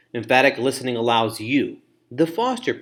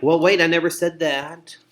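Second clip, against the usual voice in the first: high, loud protest; mock correcting; 6 semitones higher, 7 dB louder than usual. Poor listener correcting the person, mock indignant objection. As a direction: cut in to correct, hammed up. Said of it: "correct the person and say something like".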